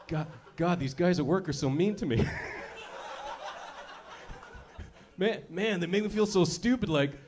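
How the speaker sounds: mope to your bro, half laughing; guy whining to buddy. Retold or imitated. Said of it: "call your boy here, be like".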